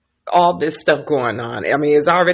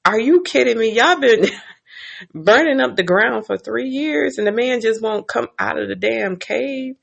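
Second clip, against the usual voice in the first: incredulous; 6 semitones higher than usual. Retold or imitated. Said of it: "So I'm like".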